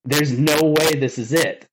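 slow, upset, breaking toward the end; crying in the truck. Retold or imitated. Alone in his truck after being hired, a slow, upset retold lament. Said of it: "I just started crying".

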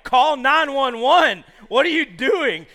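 loud, high, drawn-out yell; alarmed shout. Retold or imitated. Telling a choking friend to get help, alarmed shouting. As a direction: yell at him in disbelieving alarm.

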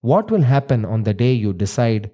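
measured storyteller voice; story narration. A narrator's reading. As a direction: tell the old legend gravely. Narrates the myth.

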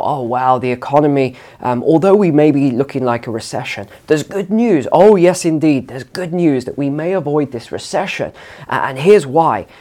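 lightly mocking the polite, reserved tone of a British official; a hint of prim good-news spin, with a brighter lift on good news and Oh yes. Parodying British officials spinning recession news in a mild mock tone. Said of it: "It's more very reserved".

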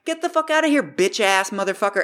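high mock furious yell. Professor chasing burglar out, high mock furious shout. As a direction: drive him out the door with it.

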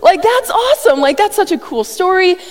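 high, loud gleeful whoop; Pastor Rob cheer. Retold or imitated. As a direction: cheer like the best news ever. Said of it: "in the words of Pastor Rob".

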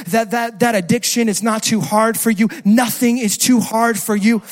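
steady prayer building to loud conviction; declarative prayer. Acted. Preacher models crying out to God in car, building prayer.

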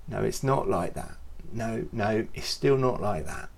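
soft, patient correction; quiet, patient no. Pretend. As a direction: gently set them straight. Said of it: "He's just patient".

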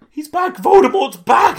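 high mock Harry; imitating Harry. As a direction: announce it dramatically. Harry's announcement mimicked.

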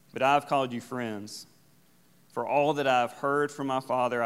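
deliberate Bible reading in short phrases, pausing between them; scripture reading. Real, not acted. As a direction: read the verses aloud, measured and emphatic. Reads the scripture passage aloud.

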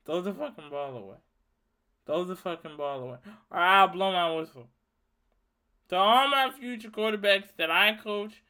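ordinary delivery

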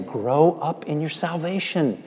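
gentle fatherly nudge; gentle, not harsh. Retold or imitated. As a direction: say it kindly, no shame. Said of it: "He doesn't do it harshly".

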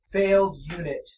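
level flat monotone; deadpan robot verdict. Acted. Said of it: "same flat monotone voice".

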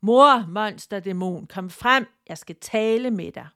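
a firm call into the dark woods; shouting out. Acted. Tina calls her mother-demon out of the forest, shouting. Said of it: "råbte".

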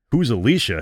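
Corey laughing at Adams's question; laughing aloud. A narrator's reading. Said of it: "he laughed aloud".

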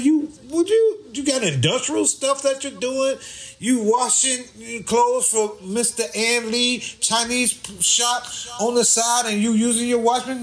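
ribbing him in disbelief; incredulous questioning. Retold or imitated.

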